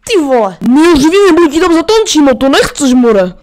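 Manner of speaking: mock threat. Threatening friend in game.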